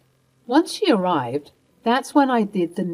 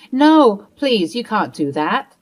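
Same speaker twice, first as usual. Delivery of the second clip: desperate plea; 3 semitones higher, 6 dB louder, slower than usual. Acted. Martha begging Mia not to call the police, desperate. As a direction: panic at the threat of police.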